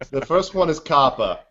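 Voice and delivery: kappa for copper, Boston R dropped; Boston accent. Pretend. Mark naming copper in his Boston accent. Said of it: "as in the metal".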